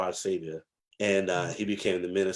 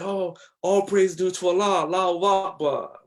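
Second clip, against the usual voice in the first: much higher, thrilled praise; overjoyed neighbor; 9 semitones higher, 4 dB louder than usual. Retold or imitated. The minister's daughter hearing he accepted Islam, joyful high voice. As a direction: imitate her delighted outburst, pitched way up. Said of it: "She's like".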